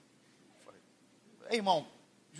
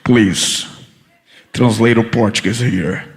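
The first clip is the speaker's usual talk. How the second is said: much lower, louder and slowly drawn out, like an official on a mic; immigration officer; 10 semitones lower, 10 dB louder, much slower than usual. Retold or imitated. Preacher voicing the immigration officer calling for a translator: a deep, slow, loud announcement. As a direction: boom it down through a microphone. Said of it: "aí ele pegou o microfone assim".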